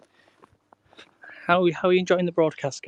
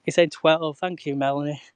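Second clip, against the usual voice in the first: out of breath; 4 dB louder than usual. Real, not acted. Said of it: "you can tell I'm out of breath now".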